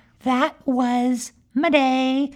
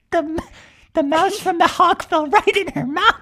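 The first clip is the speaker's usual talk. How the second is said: higher pitch, breaking up with laughter; laughing while talking; 5 semitones higher than usual. Real, not acted. Storyteller cracking up at the mouse mishap, laughing. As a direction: barely get it out through laughs.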